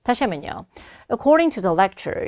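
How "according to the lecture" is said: slow, measured "According to the lecture", then a stop; pause after the phrase. Shown as a demonstration. Teacher repeats the opener for speaking practice, pause after "lecture". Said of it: "쉬고".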